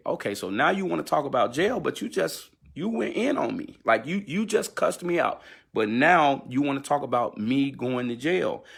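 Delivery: high-pitched, indignant comeback; heated retort. Retold or imitated. Retelling his heated argument.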